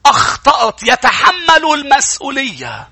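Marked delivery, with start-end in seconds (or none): 0.1-0.8 slow, solemn admission of sin; confessing. Acted. Preacher voicing a sinner admitting to God, slow and solemn. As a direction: own the fault slowly and gravely. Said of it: "بيقولوا له".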